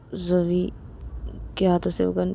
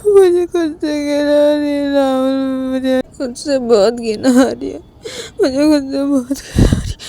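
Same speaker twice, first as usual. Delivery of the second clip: 1 crying despair. Acted. Self-disgust confession, crying.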